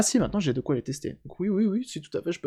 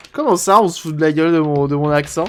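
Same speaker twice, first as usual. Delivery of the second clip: mock outrage; 7 dB louder than usual. Repairer answering a viewer's accent joke, mock offended. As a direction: play offended, but it's a joke.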